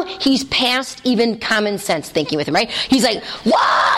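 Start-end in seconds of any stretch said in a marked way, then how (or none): 3.5-4.0 a hammed-up unvoiced furious yell; imitating the king blowing up; mock rage roar. Teacher acting the raging king, mock roar. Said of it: "He goes into fury".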